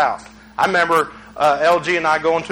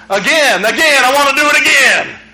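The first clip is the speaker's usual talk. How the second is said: put-on excited kid; 6 semitones higher, 4 dB louder than usual. Kid begging to jump again.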